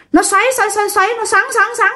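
high swirling sing-song voice; whirling sound. Retold or imitated. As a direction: twist the words like a whirlwind. Tả cơn lốc xoáy. (giọng cao xoay xoáy như vòi rồng)

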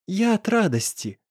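a hint of happy tears; smiling through tears. A narrator's reading. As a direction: smile through tears, lightly voiced girl. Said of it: "сквозь слёзы улыбнулась".

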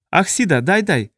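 high, squeaky alien creature; squeaking. A narrator's reading. Second Taprisiot answers its questioner, squeaking. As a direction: pipe up in a thin high squeak. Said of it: "пропищал второй Тапризиот".

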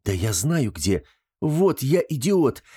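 excited self-reproach; sudden realization. Acted. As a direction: exclaim as it dawns on him. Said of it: "чуть не вскрикнул".

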